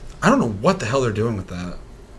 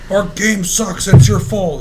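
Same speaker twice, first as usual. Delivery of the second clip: high, louder whining complaint; whiny mock voice; 9 semitones higher, 8 dB louder, slower than usual. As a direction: whine it like a sulky boss. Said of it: "mocking studio's complaint".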